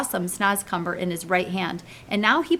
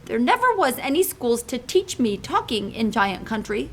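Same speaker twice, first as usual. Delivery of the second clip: sad; 4 semitones higher than usual. Acted. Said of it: "the B F G said sadly".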